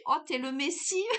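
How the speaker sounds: loud, high, laughing cry of relief; relieved joy. Retold or imitated. Telling a friend about meeting the jogger, loud laughing relief. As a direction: greet the rescuer like a miracle, laughing. Lost, meets a jogger she knows.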